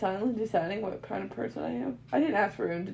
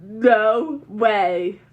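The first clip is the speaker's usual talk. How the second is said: shocked; 12 dB louder than usual. Acted. Shocked disbelief.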